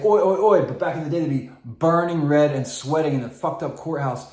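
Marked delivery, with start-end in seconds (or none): 0.0-0.6 lightly imitated judge, higher and louder; mock judge. Imitating a judge's call, higher and louder. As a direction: punch out each syllable as a mock judge. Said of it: "So a judge would say".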